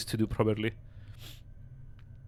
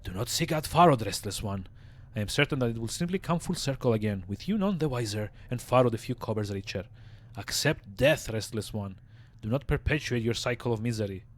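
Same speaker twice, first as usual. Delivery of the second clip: warning zombie voice. Acted. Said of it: "A slight warning creeps into Dahl's tone".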